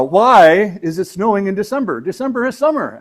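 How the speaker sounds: put-on a high, loud Australian child's voice; attempted Australian accent. Australian child asking parents about December snow, attempted Australian accent. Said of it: "I can't do an Australian accent".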